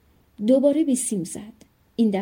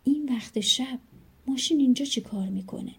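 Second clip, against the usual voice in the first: surprised. Acted. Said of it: "با تعجب گفت".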